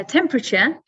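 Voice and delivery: "temperature" short, as TEM-pruh-chuh; English pronunciation. Shown as a demonstration. Teacher models English for learners, short-vowelled "temperature". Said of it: "which is the English, uh, pronunciation".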